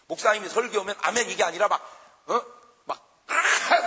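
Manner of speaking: usual speaking voice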